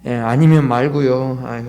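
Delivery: low, slow shrug of a line; resigned giving up. Acted. Believer giving up on an unanswered prayer, resigned and low. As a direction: let it drop low, then sigh it off.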